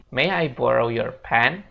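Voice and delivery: slow, careful English model; slow model sentence. Shown as a demonstration. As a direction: say it slowly for learners. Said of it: "kita bisa bilang".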